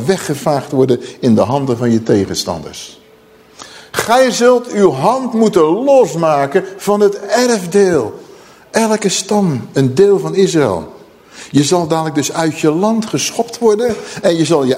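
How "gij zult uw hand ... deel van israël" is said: slow, higher-pitched prophetic proclamation; solemn scripture declamation. Acted. Preacher reading God's judgment to the congregation, solemn declamation. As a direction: declaim it word by heavy word.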